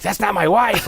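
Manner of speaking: high, alarmed paranoid man; movie quote impression. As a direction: cry out like the Body Snatchers guy. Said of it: "the guy in Invasion of the Body Snatchers".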